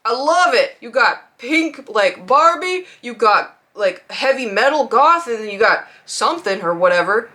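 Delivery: put-on emphatic old dude, drawn-out key words; slow, punchy mock old-guy enthusiasm; lightly voiced old dude. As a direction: lightly imitate an old guy handing out compliments. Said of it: "some old dude came over and was like".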